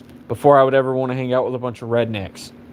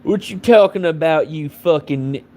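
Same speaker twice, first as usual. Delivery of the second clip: imagined redneck; 2 semitones higher than usual. Acted. Redneck answering an insult in an imagined quarrel, mock indignation. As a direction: lightly imitate an indignant redneck. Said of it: "the redneck would be like".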